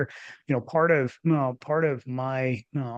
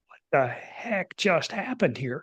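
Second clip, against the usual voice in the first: slow, higher, dazed wonder; stunned disbelief; 5 semitones higher, slower than usual. Retold or imitated. Alone at dawn after sobbing, stunned slow question. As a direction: let the words hang in shock. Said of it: "in stunned silence going".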